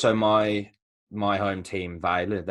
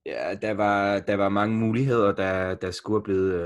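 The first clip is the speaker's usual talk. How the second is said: a few halting lines of Danish, put on the spot; hesitant Danish, embarrassed to be asked; speaking Danish on request. Shown as a demonstration. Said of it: "I would like to hear some".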